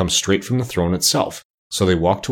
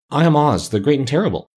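higher, timid little-man voice; trembling voice; 6 semitones higher than usual. A narrator's reading. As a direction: announce it high and nervously, lightly acted. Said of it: "said the little man in a trembling voice".

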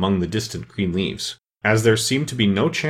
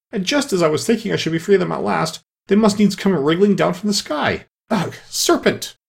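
building shriek; 9 semitones higher than usual. A narrator's reading. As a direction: work up into a disgusted shriek. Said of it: "raising its voice to a shriek".

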